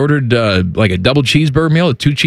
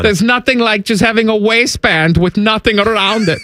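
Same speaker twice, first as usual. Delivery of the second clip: put-on German accent.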